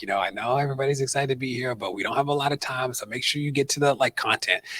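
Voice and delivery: lightly voiced Obama, calm and measured; a hint of Obama's even, unhurried tone; Obama impression. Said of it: "in a very Obama voice".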